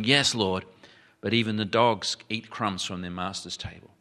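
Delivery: softened, understated retold submission; humble reply. Lowly woman answering her Lord, understated humble reply. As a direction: answer meekly, easing off the preaching volume. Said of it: "bowed down low".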